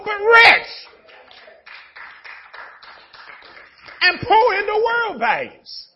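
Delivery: high, loud sermon cry; shouting the point, slowing down; preaching shout. Acted. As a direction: drive it home to the church. Preaching at full force.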